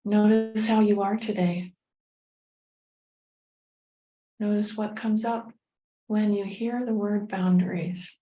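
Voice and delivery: measured meditation guide with long pauses; guided meditation. Acted. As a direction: gently lead listeners inward, phrase by phrase.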